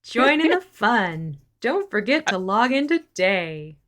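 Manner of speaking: commercially. Acted. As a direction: play along as a commercial announcer. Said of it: "it sounded a little commercially".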